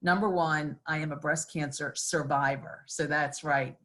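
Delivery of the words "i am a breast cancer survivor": survivor given the weight of the sentence; stress on survivor. Real, not acted. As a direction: lean on survivor as the key word. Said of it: "I put the emphasis on the word survivor".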